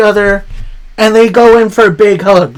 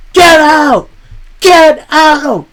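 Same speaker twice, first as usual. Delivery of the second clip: high, louder imitated yell; mock yell; 9 semitones higher, 3 dB louder, much slower than usual. Wrestler caught on camera yells at cameraman, mock yell.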